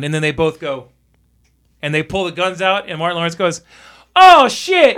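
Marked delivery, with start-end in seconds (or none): 4.2-5.0 high, loud startled yelp; mock alarm. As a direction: imitate a sudden panic. Acting out startled film character.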